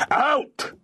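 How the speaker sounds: high, forceful command; stern order. A narrator's reading. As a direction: fire it back as a final order. Lord repeats his eviction order.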